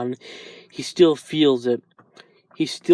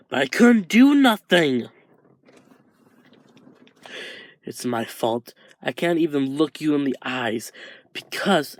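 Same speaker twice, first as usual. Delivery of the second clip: guilt spilling out until it breaks loose; anguished confession; 3 semitones higher than usual. Acted. Izuku blaming himself to Shoto, anguished and rising.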